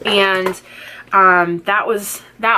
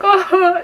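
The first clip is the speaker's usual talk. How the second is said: mock pained oh; 12 semitones higher, 3 dB louder than usual. Retold cry of pain during epidural.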